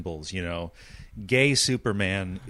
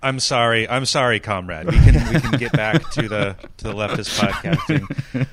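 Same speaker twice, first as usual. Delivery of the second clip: laughing; 7 dB louder than usual. Real, not acted. Laughing through apology.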